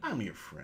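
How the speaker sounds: gentle, soft, calm soothing voice. Talking to Chloe, who must accept packing up the tree: calm voice. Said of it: "this is my calm voice".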